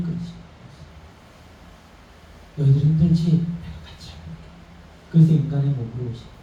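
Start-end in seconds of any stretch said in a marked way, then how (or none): 2.6-4.4 tender comforting voice; gentle comfort. Retold or imitated. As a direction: reassure them tenderly. Jesus comforting his people.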